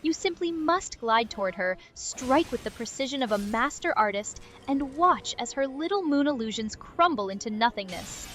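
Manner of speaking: snobby English take on French; posh fake French, looking down at you; French accent. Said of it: "snobby French person, but do, like, an English person doing a French accent".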